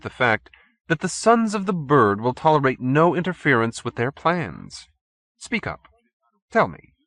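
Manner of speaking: sinister chairman demanding Randall speak; menacing chairman. A narrator's reading. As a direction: press him for an answer. Stolz interrogates Randall.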